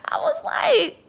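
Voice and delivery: Bailey hoch und laut ausgestoßen, lachend vor Schock; shocked high squeal. Retold or imitated. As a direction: wie eine fassungslose Mutter aufkreischen. Shocked mom reacting to daughter.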